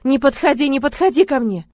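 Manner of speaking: loud, high panicked cry; terrified scream. Acted. Heroine screaming at him not to come near, terrified. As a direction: push him away with your voice.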